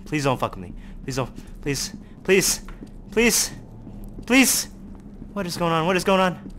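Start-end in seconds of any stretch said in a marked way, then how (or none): 0.1-4.7 begging, starting low and climbing; nervous pleading. Real, not acted. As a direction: plead with growing worry. Begging the horror game.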